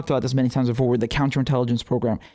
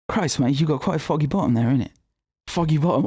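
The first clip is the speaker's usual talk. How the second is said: lightly put-on Cockney; Cockney with dropped t's; Cockney accent. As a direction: play it as a mock Londoner with a Cockney accent. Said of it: "we'll say in a Cockney accent".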